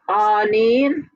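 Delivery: Anin said slowly, each syllable apart. Shown as a demonstration. Teacher modelling Anin for the class, syllable by syllable. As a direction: sound out Anin one syllable at a time. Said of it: "I'm pronouncing each syllable".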